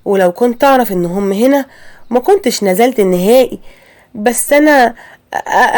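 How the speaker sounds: halting, stuttering daughter-in-law, scared to speak; stammering apology. Acted. Wife stammers an apology to her angry mother-in-law, halting. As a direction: trip over the first sounds, nervous and unsure. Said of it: "وفاطمة وقفت اتكلمت وقالت".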